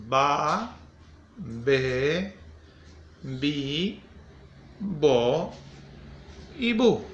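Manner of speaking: teacher sounding out each syllable slowly; slow syllable drill. Shown as a demonstration. Teacher to the kids sounding out syllables, slow and clear. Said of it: "Los sonidos de la B".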